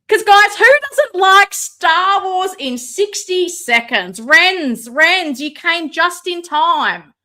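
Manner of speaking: loud, slow, hyped-up call to the chat; shouting. Real, not acted. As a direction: shout it out like a stream host fired up for Star Wars. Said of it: "I'm shouting".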